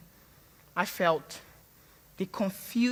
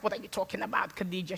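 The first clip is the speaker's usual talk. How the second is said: mother's reply; 3 semitones lower, 8 dB quieter, faster than usual. Retold or imitated. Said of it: "She's like".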